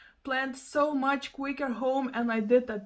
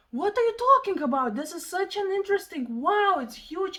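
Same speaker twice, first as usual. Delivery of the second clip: excited grandma; 5 semitones higher than usual. Retold or imitated. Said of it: "the other one was".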